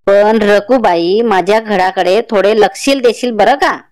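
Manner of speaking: grandmother telling her neighbour she is off to visit her daughter; old grandmother. Acted. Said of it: "म्हातारी म्हणाली".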